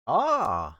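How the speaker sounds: sudden high yelp of surprise; startled. Real, not acted. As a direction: jump at the shock. Game opens unexpectedly.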